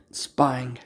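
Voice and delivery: whispered word. Real, not acted. Owner whispering as the cat spies. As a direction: whisper it so the cat won't hear.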